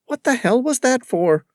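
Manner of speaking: high, loud, outraged cry; shocked and furious, she snaps back at him; indignant outburst. Acted. Woman lashes out at David after a stolen kiss, outraged.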